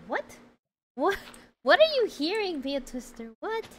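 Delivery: loud, high-pitched incredulous outburst; high, loud, baffled question. Real, not acted. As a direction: burst out in disbelief at what someone heard. Startled reply to misheard chat remark.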